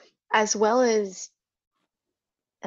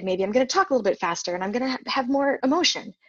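quick, rising excited demo; a touch of demo excitement; talking faster; 3 semitones higher, faster than usual. Shown as a demonstration. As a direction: speed up to show excitement. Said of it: "Or if I'm excited".

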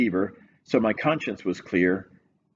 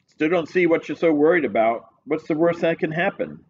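higher cop voice, mumbling through food; mouth full; 6 semitones higher than usual. Acted. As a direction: talk round a mouthful of sandwich. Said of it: "Through a mouthful of food, Phelan mumbled".

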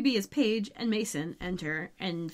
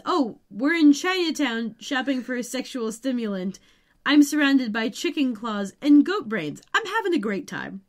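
mock-enthusiastic quote, pitched up; sarcastic retort; 4 semitones higher, 4 dB louder than usual. Mason replies to Phoebe about shopping in Chinatown, sarcastic. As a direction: play up the sarcasm, a little higher and louder.

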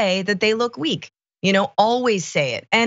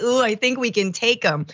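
teasing imitation of a war hawk; mock neocon bravado; 3 semitones higher than usual. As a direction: play the cocky hawk. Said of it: "a little neocon in there being like".

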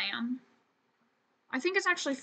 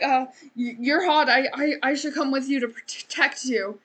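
stammering, flustered suitor act; lightly acted fluster with stuttered starts; 5 dB louder than usual. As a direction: trip over the first words, mock-flustered. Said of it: "like, flustered".

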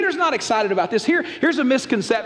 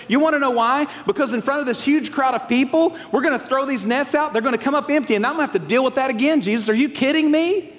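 higher-pitched, incredulous complaint; distrustful protest; 5 semitones higher than usual. Acted. Simon objects to Jesus before a crowd, distrustful. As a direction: protest as if it is bound to fail. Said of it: "his distrust that this is gonna".

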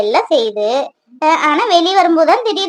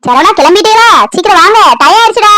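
calling out; 4 semitones higher, 4 dB louder than usual. Acted. Wife calls husband from afar.

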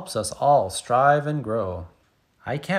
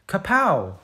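big kick sound; 7 semitones higher, 3 dB louder than usual. Pretend. Kicking ball in story.

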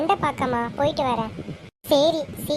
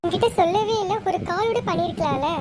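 tearful; 5 semitones higher than usual. Acted. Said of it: "அழுகாத".

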